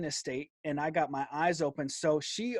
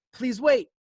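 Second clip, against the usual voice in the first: pleading call, higher and louder; desperate plea; 7 semitones higher, 5 dB louder, slower than usual. Retold or imitated. Retelling calling after the girl, loud pleading. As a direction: beg her to wait, straining. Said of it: "That's all I can muster up".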